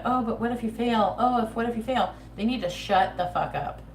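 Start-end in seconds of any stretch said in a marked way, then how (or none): 0.0-2.1 higher, louder fretful "what if you fail" whine; mock worried relative. Tarot reader mocking fretful family members, in a whiny worried voice. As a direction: mimic a nagging, anxious relative. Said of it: "family members around going".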